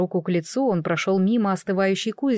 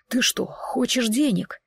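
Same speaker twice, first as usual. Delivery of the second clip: disbelieving; 3 semitones higher, slower than usual. Acted. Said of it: "неверяще произнёс Ати".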